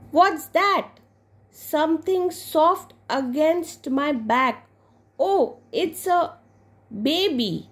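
high-pitched, startled questioning; acted surprise at discovering something behind you; startled little girl. Girl startled by something at her back.

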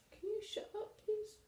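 high, annoyed snap; irritated plea to be quiet. Real, not acted. Snaps at someone off camera.

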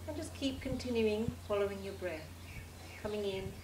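calm, measured meditation voice with long pauses; guided meditation. Acted. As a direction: lead a relaxation, leaving space after each phrase.

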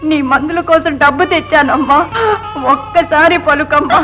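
put-on boy begging his dead mother through tears; crying plea. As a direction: plead with her to answer.

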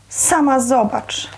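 moaning. A narrator's reading. Aunt answering the alarmed mother, mildly moaning. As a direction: groan it out slowly, in understated dismay. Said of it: "jęknęła Wiesia".

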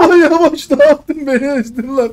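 loud, laughing outrage; half-laughing yell at your friend; laughing complaint. Real, not acted. Run over by friend's car.

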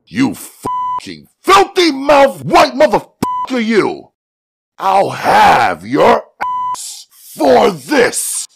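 loud, high-pitched raging threat; enraged shouting, last words drawn out; furious outburst. A narrator's reading. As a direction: explode at the officer, slowing on the threat. The sudden outburst.

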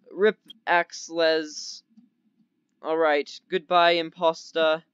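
lightly put-on weird accent; drawn-out words in an odd playful accent; silly accent with dropped R endings. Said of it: "doing this weird accent".

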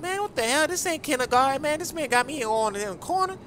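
Impression of a rapper. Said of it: "the rapper, baby".

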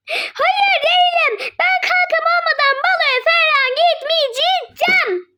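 high, slow sobbing complaint; hammed-up sulky crying; whiny crying. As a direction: whine through fake tears. Sulking about missing friend.

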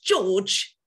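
loud pigeon squawk up the tree. A narrator's reading. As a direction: squawk his name up the tree. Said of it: "Then she squawked".

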